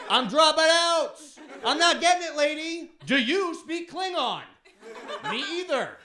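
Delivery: high strained mock panic. Student pleading with Italian professor, high and panicked.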